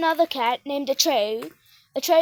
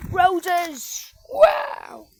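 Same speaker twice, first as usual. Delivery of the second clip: amazed exclamation; 3 semitones higher than usual. Real, not acted. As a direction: exclaim in delight at a sight. Exclaiming at the roses.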